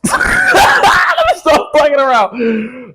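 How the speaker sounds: very high, drawn-out clowning wail; silly high squeal of words; hammed-up cry. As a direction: stretch it into a slow high-pitched mock shout. Clowning after his roadman intro.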